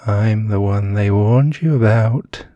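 slow and loud, looming threat; menacing. Acted. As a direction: loom over her with the words. Stalker menacing sleeping victim.

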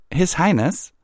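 high-pitched, astonished query; puzzled surprise. Acted. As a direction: repeat the title in disbelief. Twilight queries the unexpected title.

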